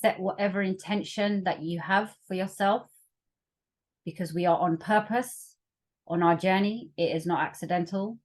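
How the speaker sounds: calm meditation guide, long pauses between phrases; guided meditation. Acted. Facilitator leading workshop listeners into their breath, guided meditation. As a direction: ease them gently inward, leaving room to breathe.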